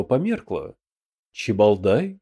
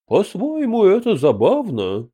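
hoarse voice; 7 semitones higher than usual. A narrator's reading. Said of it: "произнёс охрипший император".

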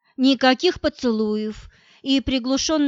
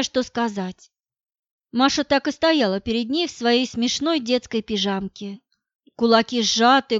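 plain reading voice

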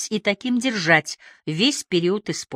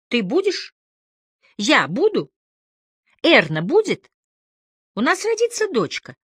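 1 rising plea; 7 semitones higher than usual. A narrator's reading. Wife pleads, rising voice.

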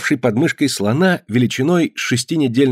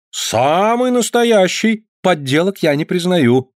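slow, much higher, grandly drawn out; solemnly; 8 semitones higher, slower than usual. A narrator's reading. Clown assures the boy his elephant is real, mock-solemn. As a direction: proclaim it like a ringmaster. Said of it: "торжественно ответил клоун".

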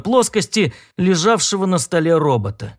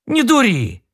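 sharp rebuke; 7 semitones higher than usual. A narrator's reading. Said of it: "обрушился на него Пауэлл".

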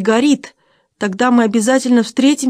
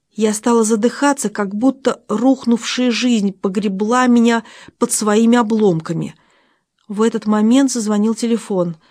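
usual speaking voice

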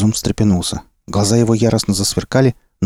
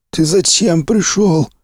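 slow hoarse wheeze, higher; raspy whisper; 9 semitones higher, much slower than usual. A narrator's reading. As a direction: rasp it out through pain. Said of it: "просипел раненый".

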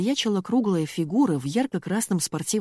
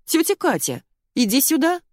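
calling out, higher and louder; shouting; 10 semitones higher, 5 dB louder than usual. A narrator's reading. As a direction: call across the yard to an old woman. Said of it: "а затем закричала".

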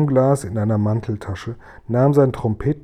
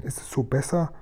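soft, careful whisper; whispered question; 2 semitones higher, 7 dB quieter than usual. A narrator's reading. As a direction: ask in a tiny hushed voice. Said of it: "flüsterte Sophiechen".

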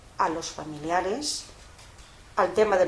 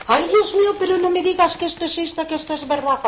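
higher, louder tearful wail; sobbing disbelief; 8 semitones higher, 6 dB louder than usual. Retold or imitated. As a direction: wail it as if in tears. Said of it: "pero abrazada a mí, pero llorando". (llanto de incredulidad, agudo y fuerte)

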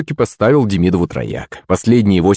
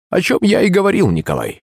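sad reply; 8 semitones higher than usual. A narrator's reading. Teacher confirms bad news to pupil, mildly sad. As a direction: answer with understated sorrow. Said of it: "печально ответил умник".

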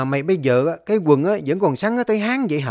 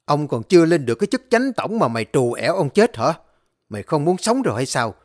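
furious rant; faster than usual. Acted. Furious master threatening servant.

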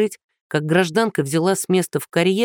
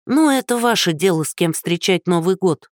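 put-on gracious old woman. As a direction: grant permission graciously from above. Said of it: "милостиво разрешила бабуля".

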